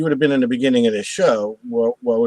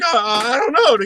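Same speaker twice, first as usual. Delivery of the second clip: retold scream; 8 semitones higher than usual. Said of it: "He, he started screaming".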